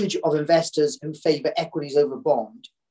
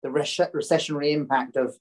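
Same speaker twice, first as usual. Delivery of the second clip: hoarse voice after coughing; rough, scratchy throat while talking; croaky voice. Real, not acted. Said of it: "croaky voice".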